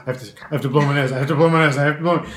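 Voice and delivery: quick, repeated mock pleading; urgent plea. Patient begging doctor to let her blow her nose, urgent. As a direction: tumble over the words as if desperate to get up.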